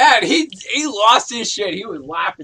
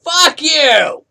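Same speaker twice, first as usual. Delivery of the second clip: mock angry retort; 8 semitones higher, 8 dB louder than usual. Acted quarrel with boss.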